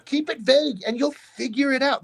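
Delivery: high-pitched retold advice; pleading pep talk; exasperated urging.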